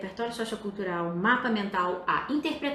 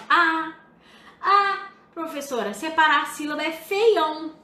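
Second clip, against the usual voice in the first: lightly mimicked student complaint, higher and louder; objecting student; 5 semitones higher, 6 dB louder than usual. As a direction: imitate a student protesting to the teacher, raised voice. (imitação leve de aluno reclamando)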